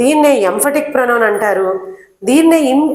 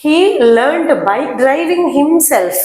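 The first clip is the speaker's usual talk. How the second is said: slow dictation; 3 semitones higher, much slower than usual. Shown as a demonstration. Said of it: "himself లాస్ట్లో ఉందనుకోండి".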